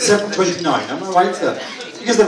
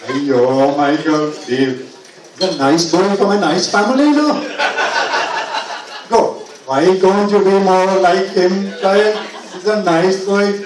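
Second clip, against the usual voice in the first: lightly voiced Sri Lankan mum; a hint of a mum nagging in her Sri Lankan lilt; mum's accent. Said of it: "My mother talks, still talks like that".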